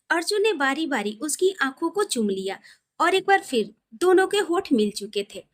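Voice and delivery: ordinary delivery, nothing marked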